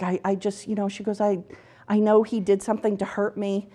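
normal talking voice

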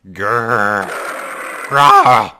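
low growl rising to a loud roar; tiger growl. Acted. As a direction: growl like a big cat, then roar.

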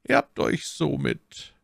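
soft but severe. A narrator's reading. Cardinal beginning his reproach to D'Artagnan, softly severe. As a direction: say stern words in a soft voice. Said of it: "deren Weichheit mit der Strenge".

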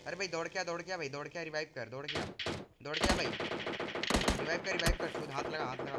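urgent, frantic calls for help; panicking gamer. Real, not acted. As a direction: beg a teammate to revive fast. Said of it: "जान ही निकल गई थी भाई".

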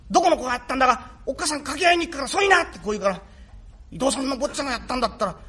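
put-on small boy pleading with his long-lost father; boy's voice. Son telling father about his wound, in a light boy's voice. Rakugo performer voicing the boy.

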